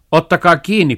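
high, loud alarmed yelp; father crying out after the jackdaw; father's cry. A narrator's reading. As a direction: yell it out as the thermometer flies off. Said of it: "parkaisi isä".

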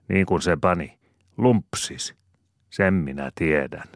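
a simple man rambling to the judge; lightly voiced cottager spinning a yarn; folksy cottager's tale. Cottager's story, retold.

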